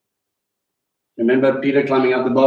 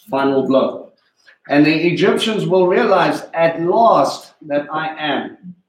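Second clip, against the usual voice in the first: scripture reading; 3 semitones higher than usual. Acted. Reads scripture aloud.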